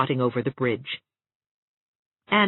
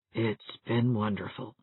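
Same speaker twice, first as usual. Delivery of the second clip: to herself; 4 semitones lower, 7 dB quieter than usual. A narrator's reading. Catherine lost in thought, softly to herself. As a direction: say it mostly to yourself. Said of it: "said Catherine so obviously to herself".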